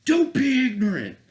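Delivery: high, loud snooty mock voice; mocking liberals. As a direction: sneer it like a scolding know-it-all. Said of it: "They're like".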